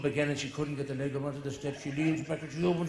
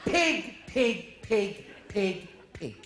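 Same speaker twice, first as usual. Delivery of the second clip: higher mock jeering pig; a hint of an angry driver; insulting shout; 4 semitones higher, much slower than usual. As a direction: hurl it out the window. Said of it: "she goes".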